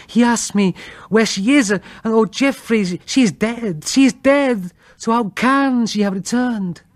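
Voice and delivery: high, shaken plea, rising to a cry on the second "she is dead"; frightened wife. Acted. Wife tells of dead sister.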